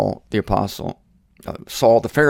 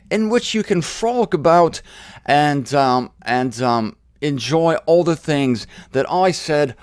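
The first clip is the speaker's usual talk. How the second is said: higher, grand put-on accent as God; God character voice; 4 semitones higher than usual. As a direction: play God making big promises in a mock accent. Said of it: "I'm mixing my accents here".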